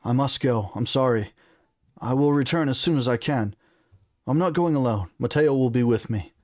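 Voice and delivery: put-on earnest British-accented young royal; firm prince with a light British accent. Prince tells his parents he is leaving, British accent. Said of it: "on the British accent".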